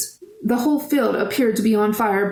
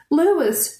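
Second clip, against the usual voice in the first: calling out; 6 semitones higher than usual. Acted. Searching in panic, calling out.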